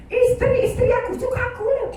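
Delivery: mock the husband who thinks his wives adore him; a lightly voiced boastful husband; smug husband. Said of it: "Kerana dia melihat".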